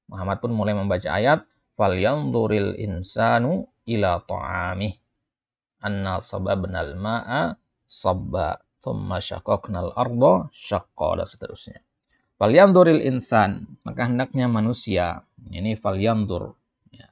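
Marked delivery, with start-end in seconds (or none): 1.8-11.2 slow, measured Quranic reading; Quran recitation. Acted. Teacher recites the verse slowly for the class. 12.4-13.8 slow, louder verse opening; emphasised verse words. Acted. Teacher repeats the verse for students, louder.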